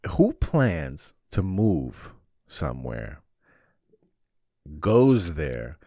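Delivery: ordinary talk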